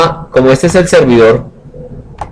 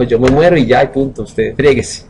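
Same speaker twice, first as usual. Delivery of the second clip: sulky dying server; 4 dB quieter than usual. Retold or imitated. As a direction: let the server quit with a shrug. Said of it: "se murió y dijo". (servidor que se rinde, lento y desganado)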